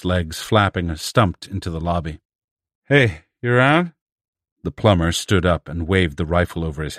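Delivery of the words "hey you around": loud, high call into an empty room. A narrator's reading. Thin man calls out for the hidden men, loud and high. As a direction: shout to find the others.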